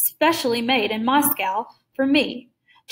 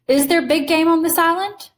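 higher, louder surprised question; 5 semitones higher, 3 dB louder than usual. Acted. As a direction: ask it in open surprise. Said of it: "Rainsford expressed his surprise".

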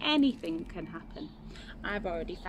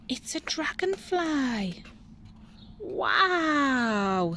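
put-on high, wondering child's wow; amazed; 7 semitones higher, much slower than usual. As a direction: delight at the giant insect.

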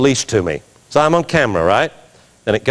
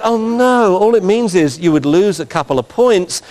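mock reassurance; 5 semitones higher than usual. Judge answers the worried handler.

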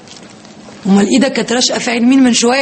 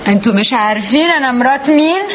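haughty boast; 2 semitones higher than usual. Pretend. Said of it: "الكلمة السحرية دي".

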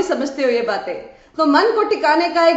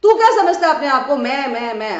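fast, raised retort, then dropping off; mock shouting back. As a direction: imitate the other side of a squabble. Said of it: "और इधर से Y भी चिल्ला रहा है".

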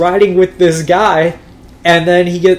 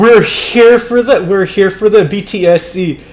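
mock officer voice; 5 semitones higher than usual. Police asking the research head for the device, mock official. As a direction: put on a stiff cop voice for the demand. Voicing police demanding the system.

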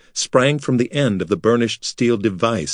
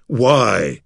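furious shout. A narrator's reading. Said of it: "Artek shouted in fury".

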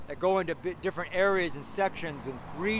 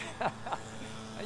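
laughing; 4 semitones higher, 9 dB quieter than usual. Real, not acted. Laughs at his own excitement.

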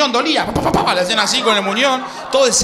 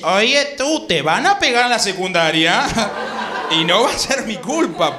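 Disney-dub Spanish. Retold or imitated. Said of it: "todo el tiempo habla así".

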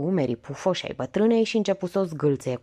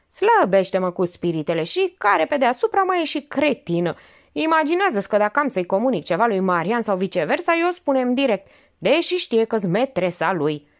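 higher, quicker impatient voice; irritated young woman; 5 semitones higher, 4 dB louder than usual. Acted. Olga brushing off her aunt's joke, impatient.

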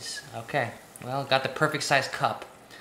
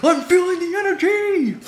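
even higher and giddier; more hyped; 13 semitones higher, 4 dB louder than usual. Pretend. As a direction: ride the rush even harder. Repeated, higher still.

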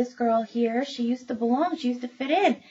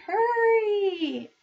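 "Hurry!" called much higher; urgent call; 12 semitones higher, 3 dB louder than usual. Acted. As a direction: hurry the child along urgently. Grown-up drags kid along.

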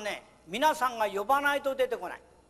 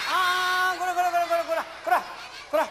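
higher, playful mock telling-off; light mock scolding, higher; 6 semitones higher, 3 dB louder than usual. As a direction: pretend to scold a naughty puppet. Scolding the puppet again.

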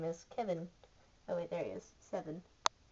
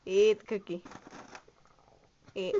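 louder command to eat; playful firm order; 3 dB louder than usual. Pretend. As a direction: press the order home, louder. Repeated, firmer order to eat.

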